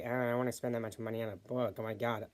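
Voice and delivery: put-on airy Valley Girl whine; ditzy Valley Girl complaint. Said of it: "annoying Valley Girl voice".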